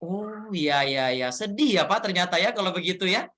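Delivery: casual, unmatched chirpy reply that ignores the sadness; mismatched tone. Shown as a demonstration. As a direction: answer brightly as if nothing sad was said. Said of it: "nggak nyambung gitu kan".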